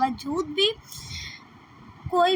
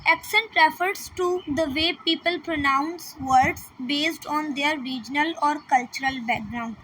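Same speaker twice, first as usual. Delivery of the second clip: slow, careful reading of an English definition; slow textbook read; much slower than usual. Shown as a demonstration. Teacher reading a definition to students, slow and careful. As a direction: read each word out slowly for the class. Reads definition aloud slowly.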